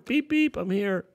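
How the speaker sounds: bus horn imitation. Bus driver honking.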